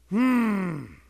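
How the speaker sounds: displeased hum. Shown as a demonstration. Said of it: "if I could put it into a sound".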